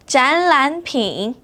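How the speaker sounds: 展览品 whispered slowly, syllable by syllable. Shown as a demonstration. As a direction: breathe it out slowly. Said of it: "should be spoken as".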